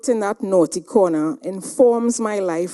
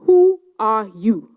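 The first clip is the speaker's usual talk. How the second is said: a hushed, breathless whisper; whispered challenge; whispered question; 4 dB louder than usual. Retold or imitated. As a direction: ask it under your breath, pointed. President repeats her question.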